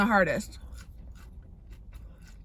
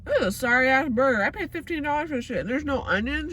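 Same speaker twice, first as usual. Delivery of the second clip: higher, irritated complaint; annoyed rant; 4 semitones higher than usual. Real, not acted. Complaining to camera about a burger missing onions. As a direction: grumble at the overpriced burger. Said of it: "I'm pissed".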